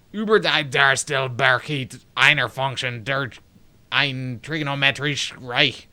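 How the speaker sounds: slow, emphatic German; German reading. Acted. Player reading brother's weird book, emphatic German accent. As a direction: read it slowly in a German accent.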